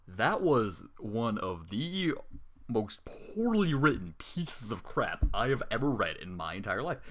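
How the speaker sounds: slow emphatic verdict. Real, not acted. Reader condemns the story.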